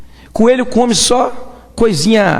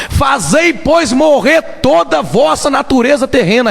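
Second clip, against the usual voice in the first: preaching shout; 5 semitones higher, slower than usual. Acted. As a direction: thunder the verse slowly at the congregation. Preacher reads scripture aloud.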